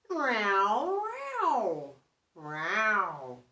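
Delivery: cat mewing on the fence; cat meowing. Acted. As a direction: meow to yourself like a cat. Cat talking to herself.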